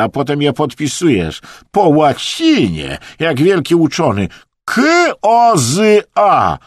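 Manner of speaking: scornful rant climbing to a high, loud shout; mocking tirade. A narrator's reading. Acted tirade mocking Emerson's drawings.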